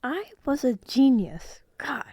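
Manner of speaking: whispered self-praise, drawn out; mock smug whisper. Real, not acted. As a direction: breathe it like a proud secret. Mock self-praise after poem.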